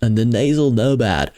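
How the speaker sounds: laid-back surfer dude; hint of a surfer dude. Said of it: "falling into, like, a surfer dude".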